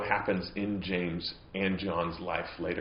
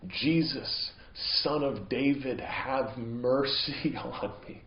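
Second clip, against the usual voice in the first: slow, higher cry for mercy; pleading cry; 4 semitones higher, much slower than usual. Retold or imitated. Blind man calling to Jesus from the roadside, pleading cry. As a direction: call out slowly, pleading, pitched up. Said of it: "he starts yelling".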